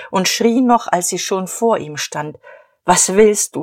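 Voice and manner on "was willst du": angry. Acted. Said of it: "fragte sie zornig".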